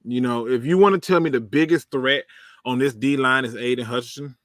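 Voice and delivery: ordinary talk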